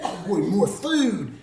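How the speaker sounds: lightly voiced eager little mouse; excited mouse. Mouse spying a package at the farmhouse, excited.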